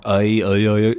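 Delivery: UH, UH, UH as gliding "ay-ay-ay"; moving vowels. Shown as a demonstration. Teacher showing vowel movement, looping glides. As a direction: roll the vowel up and down without a break. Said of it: "there's more movement to them".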